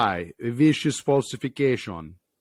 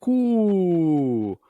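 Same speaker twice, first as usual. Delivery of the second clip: whispered pigeon coo; 4 semitones higher than usual. Acted.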